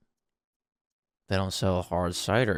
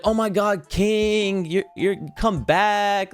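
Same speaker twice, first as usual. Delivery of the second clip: high mock barmaid voice; 10 semitones higher, slower than usual. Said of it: "She's like".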